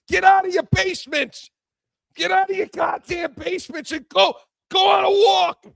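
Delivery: mock rant. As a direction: bellow at the basement dwellers to go outside. Ranting at basement critics.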